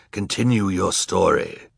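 hoarse, rasping order. A narrator's reading. Third judge ordering the orphans on, hoarse. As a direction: rasp it like a worn-out screamer. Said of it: "said the hoarse one".

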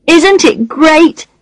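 put-on high, slow delighted child; little boy voice. A narrator's reading. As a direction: sound like a thrilled boy. Child character voice.

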